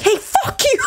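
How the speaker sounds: high, bratty mock jab; mock sassy kiss-off. To her neighbor walking out, a high mock sassy jab. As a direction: toss it off sweetly like a prank. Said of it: "and I'm like".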